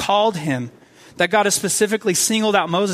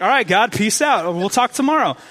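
happy sign-off; 4 semitones higher than usual. Acted. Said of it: "should be happy and be like".

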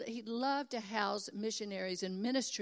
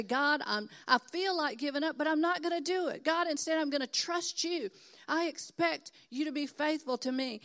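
fervent prayer; 4 semitones higher than usual. Shown as a demonstration.

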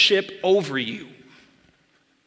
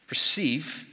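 receive set apart, slowed and leaned on; single out the word receive; stress on receive; 3 semitones lower, 5 dB quieter than usual. Shown as a demonstration. Pastor isolating receive for the congregation, leaning on it. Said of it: "watch this".

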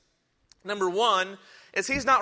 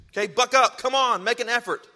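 urging call; 4 semitones higher, 5 dB louder than usual. Acted. Preacher urging the congregation.

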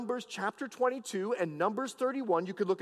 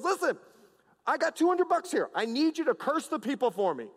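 higher-pitched urging, lightly acted; insistent king; 5 semitones higher than usual. King bargaining with Balaam to curse the people, lightly acted insistence. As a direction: press the offer as an acted king. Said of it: "and he says".

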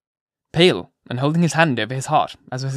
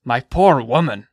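not unkind; 5 dB louder, slower than usual. A narrator's reading. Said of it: "said the not unkind old minister".

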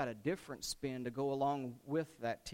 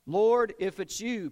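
raised, louder voice calling across water; eager call; 5 semitones higher, 10 dB louder than usual. Acted. Peter calling to Jesus on the water, loud and eager. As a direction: call out boldly to the Lord.

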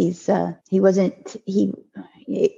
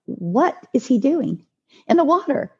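retold question, pitch jumping higher in shock; alarmed disbelief; 6 semitones higher than usual. Mother hearing her son is in the lake, alarmed disbelief. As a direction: ask it as if you can't believe it. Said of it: "And I was like".

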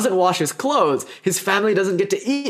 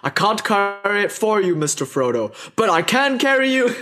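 quoting Sam; 4 semitones higher than usual. Retold or imitated. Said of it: "I love quoting Sam".

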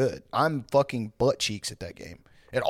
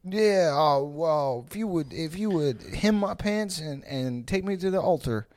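put-on wholesome 1950s kid; 3 semitones higher, 3 dB quieter than usual. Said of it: "That's how Mormons play".

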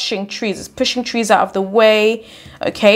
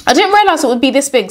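higher, hurried worry; panicky Eccles; 5 semitones higher, 4 dB louder, faster than usual. A narrator's reading. Eccles facing the huge dinosaur, panicky. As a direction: blurt it out in a fright. Acts frightened Eccles in story.

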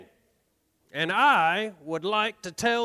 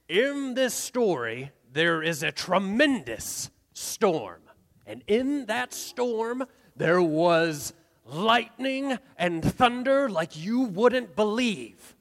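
storyteller voice; slower than usual. Acted. Sets the story scene.

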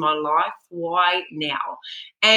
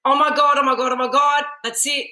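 retold panic; 4 semitones higher than usual. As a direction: relive the spiral of fear, speeding up. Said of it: "I went".

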